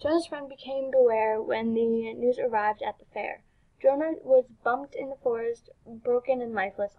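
measured rhyming storybook read; story narration. Acted. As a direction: narrate the verse line by line. Reads game's rhyming story.

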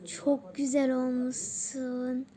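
slow, drawn-out admiring line; lingering play-acted compliment. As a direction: stretch each word in pretend admiration. Acted compliment on partner's looks.

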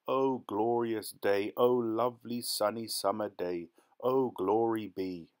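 slow, savoured rejoicing; exultant. Acted. Buyer rejoices over his secret bargain, slowly exultant.

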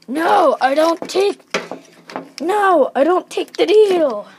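firm pretend refusal. Figure haggling over the charge, loud emphatic refusal.

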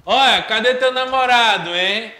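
put-on girl asking a friend about her boyfriend, teasing; imitating a girl. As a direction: tease like a nosy girlfriend. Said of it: "algumas meninas falam".

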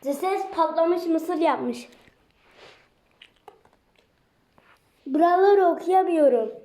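talking around a mouthful of popcorn; mouth full of hot food. Real, not acted. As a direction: mouth full, words a bit muffled. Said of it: "Ağzım yandı".

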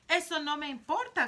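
high, loud spoilt retort; a spoilt girl yelling back at her mother; shout. Acted. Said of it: "gritó Veruca". (grito agudo y caprichoso)

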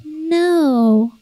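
a hint of defiant small child; stubborn toddler. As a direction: mimic a little girl refusing. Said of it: "she's like".

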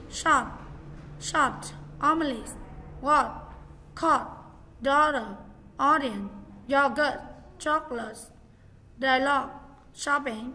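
teacher reading the word list to students, each word said clearly for them to copy; model reading of word list. Shown as a demonstration. Teacher reads words out, clear and deliberate. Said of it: "Vậy tôi sẽ đọc qua một lượt nhá".

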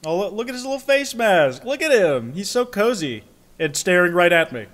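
high cooing over a cute face; overwhelmed by cuteness. Real, not acted. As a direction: gush like seeing a puppy.

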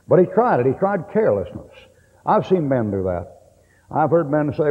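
ordinary talk

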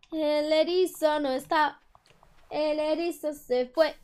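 slow whiny lament; mock crying. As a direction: fake sob over the loss. Sea urchin gone, lament.

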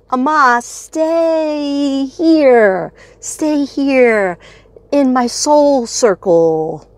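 very slow, drawn-out calling; slow invocation. Real, not acted. Vlogger inviting spirit into her soul circle, slow and drawn. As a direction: call the spirit in slowly.

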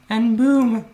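loud, high triumphant whoop; excited cheer. Real, not acted. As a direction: cheer it out with delight. Proudly shows off the new bed.

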